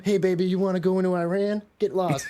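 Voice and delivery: lightly voiced girl brushing off a late call; booty call refusal. Kurds as a girl turning down a three A M call, mock high voice. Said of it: "three A M".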